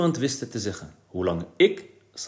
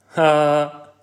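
loud, laughing and higher; a boy laughing about a too-polite policeman; 6 semitones higher, 8 dB louder, much slower than usual. Acted. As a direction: chuckle through the words. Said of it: "lachte Eddy".

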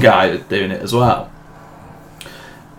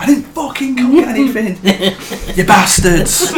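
mock grumpy old man; 9 semitones higher than usual. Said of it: "He's like".

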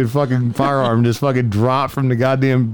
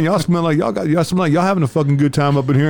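mock arrestee; 6 semitones higher than usual. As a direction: ham up the mouthy passenger. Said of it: "he goes".

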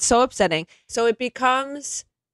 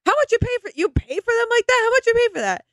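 mock boomer; 13 semitones higher, faster than usual. Mocking boomer coworker's jokes.

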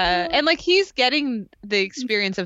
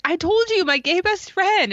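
exasperated Jen; 10 semitones higher than usual. Retold or imitated. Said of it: "And she's like".

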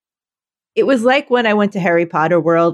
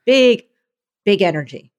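big energy. Shown as a demonstration. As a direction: sell it with a burst of energy. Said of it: "can we try it one more time".

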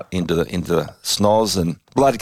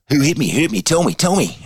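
mock demanding yell; 8 semitones higher than usual. Grabbing Finner's jumper at the huddle, mock yelling demand. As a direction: demand an answer, hammed-up. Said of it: "grabbed Finner by both of his ... jumper".

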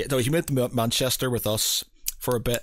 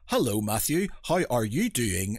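enunciated Irish twang. Retold or imitated. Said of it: "every sort of syllable comes out".

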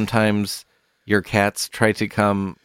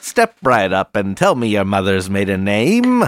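carnival barker; 4 dB louder than usual. Pretend. Mock carnival barker pitch.

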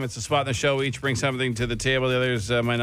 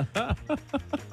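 intense noise; 13 semitones higher, 7 dB quieter than usual. Acted. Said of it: "You were so intense while making that noise".

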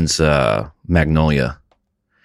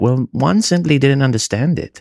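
higher, lofty snob voice; snooty art snob; 7 semitones higher than usual. Retold or imitated. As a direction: sniff at the unworthy. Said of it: "They're like".

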